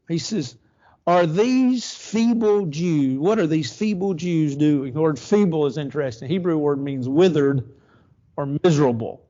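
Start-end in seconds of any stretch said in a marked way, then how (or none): 1.1-4.9 slow, scornful question with a sneer; mocking ridicule. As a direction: drag it out to belittle them. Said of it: "look at his ridicule".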